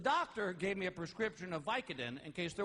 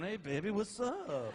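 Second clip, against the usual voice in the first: loopy flirt; 2 semitones higher than usual. Retold or imitated. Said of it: "looking at my wife going".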